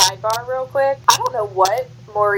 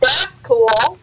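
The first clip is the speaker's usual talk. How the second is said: casual Maurice; 7 semitones higher than usual. Retold or imitated. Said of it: "he's like".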